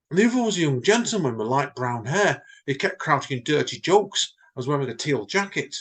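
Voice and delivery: dawning manager. Acted. John realises it was him.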